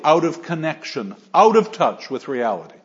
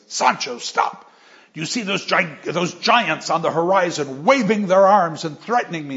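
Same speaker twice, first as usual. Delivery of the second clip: Quixote alarmed; 3 semitones higher than usual. Retold or imitated. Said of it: "he says".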